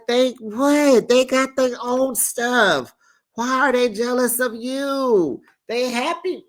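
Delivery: high, disbelieving outburst; real incredulous outburst. Real, not acted. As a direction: question it in disbelief. Host incredulous at jealousy.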